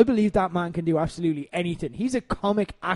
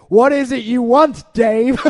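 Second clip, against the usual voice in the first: louder, higher prompting question; feeding the line; 5 semitones higher, 9 dB louder, slower than usual. Retold or imitated. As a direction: lean in and feed him his line. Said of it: "He's like".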